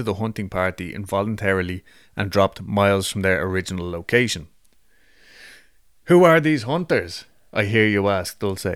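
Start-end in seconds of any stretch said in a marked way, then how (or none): 6.1-7.2 dramatic mock question.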